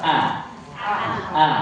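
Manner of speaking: thin, light A said cleanly; A kept thin, as in Arabic. Shown as a demonstration. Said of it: "A-nya itu tipis".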